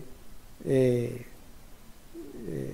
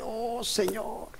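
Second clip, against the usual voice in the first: suspiro de asombro; 3 semitones higher, 9 dB quieter, slower than usual. Retold or imitated. Lector conmovido exclama a Dios.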